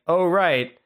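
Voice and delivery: usual speaking voice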